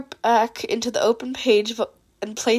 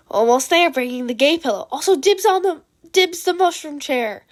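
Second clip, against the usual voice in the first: lively voiced chat line; 3 semitones higher, 3 dB louder than usual. Dupe's chat message voiced.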